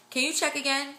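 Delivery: high, hesitant retold question; doubtful plea. Mother-to-be retelling her question to the sonographer, doubtful plea.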